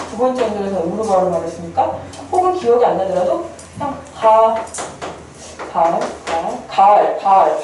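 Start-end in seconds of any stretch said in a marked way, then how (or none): 4.1-7.6 가 repeated alone, then joined into 가을; sounding out. Shown as a demonstration. Teacher decodes an old word for students, sounding out. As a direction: sound out 가을 piece by piece. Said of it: "가을 해봐".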